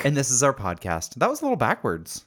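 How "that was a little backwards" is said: slight Southern twang. Real, not acted. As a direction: let a little Southern slip in. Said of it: "you sound a little Southern".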